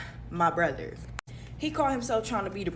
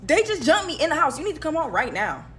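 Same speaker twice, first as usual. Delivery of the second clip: much louder, higher, frantic phone yell; 5 semitones higher, 7 dB louder than usual. Retold or imitated. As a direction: scream so mom believes you. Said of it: "I'm on the phone like".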